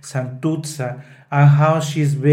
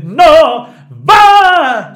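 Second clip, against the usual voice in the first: shouted cry; 13 semitones higher, 9 dB louder than usual. Shown as a demonstration. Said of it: "She's saying".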